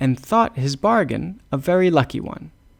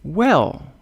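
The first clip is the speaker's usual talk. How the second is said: high, loud, drawn-out Well; hammed-up shepherd; shepherd's "Well"; 5 semitones higher, 4 dB louder than usual. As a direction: open the shepherd's reply with a big Well. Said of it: "said the shepherd".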